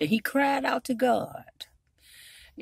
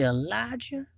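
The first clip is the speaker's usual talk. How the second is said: softly called name; still small voice; 2 semitones higher, 6 dB quieter than usual. Acted. God gently calling the upset prophet, still small voice. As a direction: say his name gently and quietly. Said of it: "this was a still small voice".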